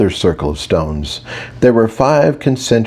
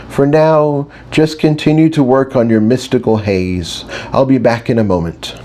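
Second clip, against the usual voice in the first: a lightly voiced teacher, higher, trying to stay soothing; patient teacher; 3 semitones higher than usual. Mage teacher guiding a group of centaurs, lightly higher and patient. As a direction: coax the class along, hiding some frustration. Teacher addresses class again.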